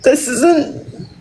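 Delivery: upset, struggling to keep composure; apologetic through rising tears; halting, tearful self-defence; real emotional. Real, not acted. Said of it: "I said I was gonna get emotional".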